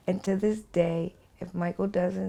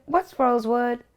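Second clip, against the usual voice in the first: high lilting question, louder; sing-song; 6 semitones higher, 4 dB louder than usual. Retold or imitated. Dying woman asking her friend on the phone, high and sing-song. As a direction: ask it lightly, like a tune. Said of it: "I'm still sing-songing with him".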